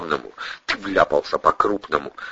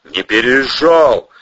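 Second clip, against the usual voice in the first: Protasov's voice; 4 semitones higher, 5 dB louder, slower than usual. Acted. Protasov denies, voiced higher.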